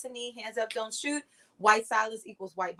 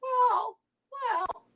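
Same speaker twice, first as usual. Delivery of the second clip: mock dithering Democrat; 10 semitones higher, much slower than usual. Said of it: "the Democrats are like".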